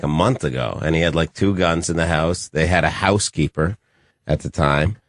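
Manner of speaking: normal talking voice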